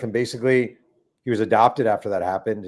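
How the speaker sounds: ordinary talk, nothing marked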